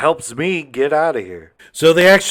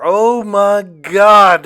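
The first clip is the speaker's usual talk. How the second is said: higher, louder, slow oh my God; stretched-out grossed-out exclamation; disgusted surprise; 7 semitones higher, 8 dB louder, much slower than usual. Real, not acted. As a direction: drag it out in mock horror. Reacting to black mold.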